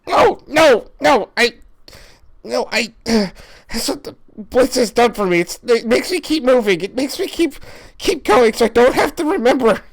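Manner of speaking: pained, pleading character voice; a haunted man trying not to remember; Lucha in distress. Acted. Player as Lucha, begging his friend to understand, pained.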